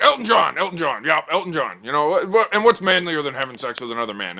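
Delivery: very high, loud eager sell; a guy pitching a singer to the table, very high and loud; excited bro pitch. Acted. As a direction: hype it up to the room.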